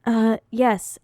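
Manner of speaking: smooth announcer dictating a text; slick radio voice. Retold or imitated. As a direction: read it like a radio host. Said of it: "sorta slick radio voice on".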